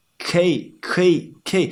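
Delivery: 可以 slurred into one sound; 可以 with the two syllables blurred into one; blended foreigner 可以. Shown as a demonstration. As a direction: run 可以 together like a learner. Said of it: "many foreigners just blend the two words".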